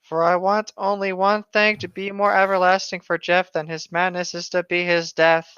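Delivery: hammed-up storyteller read; dramatic story reading. Reading a fan story aloud to a friend, hammed-up narration. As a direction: read the creepypasta like a mock-serious tale.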